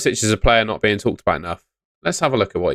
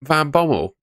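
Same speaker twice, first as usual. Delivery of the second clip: shocked disbelief; 7 semitones higher, slower than usual. Retold or imitated. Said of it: "I was like".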